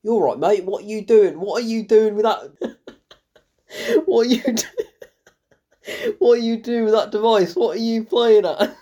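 mock matey British accent, cracking up; Lupita Nyong'o. Critic mocking an actress's switched accent, laughing British impression. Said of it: "doing a completely different British accent".

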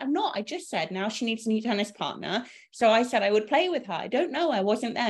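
high, flustered protest; defensive woman. Retold or imitated. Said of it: "She was so dramatic".

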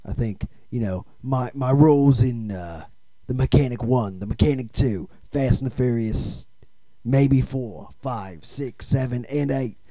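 lightly voiced tough-guy film star; action movie star. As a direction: play a halting, self-important action star.

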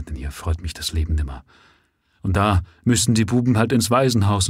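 soft, halting, words breaking off; quiet. Acted. Grieving father pleading softly for his boys, quiet and halting. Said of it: "sprach leise weiter".

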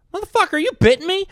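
high, loud, fast mock yell; gruff older comic. Big Tim yelling at a newbie comic, high and loud. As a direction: bark at the new kid for bitting. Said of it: "He goes".

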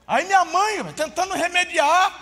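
ordinary talk, nothing marked

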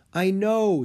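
put-on high boyish voice. A narrator's reading. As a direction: voice Jack as a young boy. Jack voiced in story.

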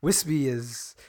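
softly mocking broadcaster wispiness; wispy voice. Shown as a demonstration. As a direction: lightly hush it to sound authentic. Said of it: "wispier is more authentic".

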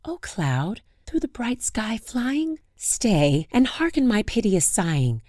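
high pleading lament; sing-song plea to the sky; plaintive lament. Acted. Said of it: "she said".

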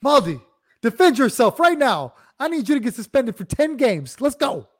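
teasing her co-host by hyping up a fight; mock hype. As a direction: pump up a fighter for a brawl. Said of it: "She's like".

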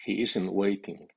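"isn't" fully stressed before "waiting". Shown as a demonstration. Teacher models a negative sentence, strong stress on "isn't". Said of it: "las palabras negativas llevan acento fónico fuerte".

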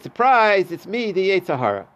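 spring the reveal like a prankster; mock surprise reveal. Yetzer Hara reveals himself.

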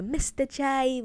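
a hint of Harley Quinn's accent. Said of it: "with, with her accent".

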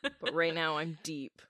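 rough morning gravel in the voice; gravelly voice. Real, not acted. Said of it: "I sound a little gravelly".

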